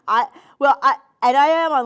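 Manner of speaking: laughing loudly through the words; loud laughter. Real, not acted. Shopping host on live TV cracks up laughing loudly. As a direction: burst out laughing at yourself mid-sentence.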